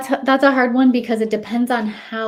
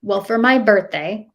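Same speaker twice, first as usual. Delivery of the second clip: demanding birthday wish, rising to a louder complaint; whiny kid demand; 3 semitones higher, 5 dB louder than usual. Retold or imitated. Son to mom, a hint of whiny kid. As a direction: voice her son pushing for gluten, pitch going up. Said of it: "he goes".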